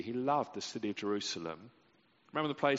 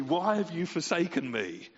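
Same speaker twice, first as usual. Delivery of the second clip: 1 mock anguished cry; 6 semitones higher, 4 dB louder than usual. Contrasted wrong quote of the cross.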